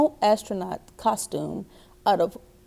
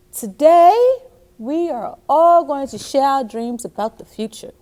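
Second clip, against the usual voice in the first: cheerful teacher; 3 semitones higher, 3 dB louder than usual. Acted. Teacher Miss Bell addressing class.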